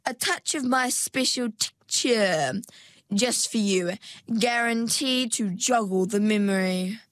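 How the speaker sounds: lightly voiced, coaxing saleswoman sweetness; a hint of false sweetness; sugary, domineering Perdita. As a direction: tempt her with a syrupy offer.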